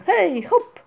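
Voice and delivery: high, loud rallying whoop; shouted cry. A narrator's reading. Each jumps onto a cloud, with a shout. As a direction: shout as if leaping aboard. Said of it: "z okrzykiem".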